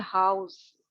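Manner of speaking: हाउस glided from आ into उ; diphthong demo. Shown as a demonstration. Teacher to students, showing the diphthong in हाउस. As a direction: say हाउस with a sliding vowel. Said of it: "उसको बोलते हैं".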